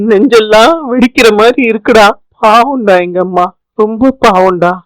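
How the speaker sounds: mildly tearful son; Gopi, acted crying. Son fears for his mother alone in jail, mildly tearful. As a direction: fret for your mother, a touch of crying. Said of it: "சின்ன பிள்ளை மாதிரி அழுதுகிட்டு இருக்க".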